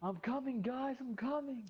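high, slow call to the team. Real, not acted. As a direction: sing it out, drawn out. Calling out to teammates.

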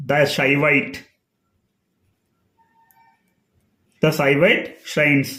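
"the" said "dha" before Shaivite; slow teaching demo of "dha Shaivite". Shown as a demonstration. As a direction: open ah in "the", no ee. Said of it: "దా అని పలకాలి. చూడండి, ఉదాహరణకు".

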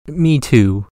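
lightly voiced little kangaroo chiming in; young kangaroo. A narrator's reading. Young kangaroo in pouch echoes.

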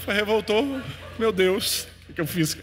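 mock panic. Sees dangerous Kelly approaching.

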